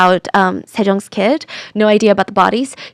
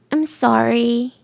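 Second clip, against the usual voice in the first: soft, slow apology; repeated apology; 5 dB quieter, much slower than usual. Retold or imitated. Suspect repeating herself to investigators, soft and slow. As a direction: draw it out quietly. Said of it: "she just kept repeating".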